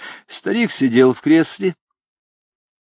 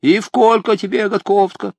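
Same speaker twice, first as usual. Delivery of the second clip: toothless mumble; 5 semitones higher, 4 dB louder than usual. A narrator's reading. Toothless old man lisps.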